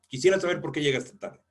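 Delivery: Quisiera saber por qué llegaste tarde said quick and pointed; challenging. Shown as a demonstration. Teacher showing how the phrase can sound defiant. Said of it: "suena hasta retador".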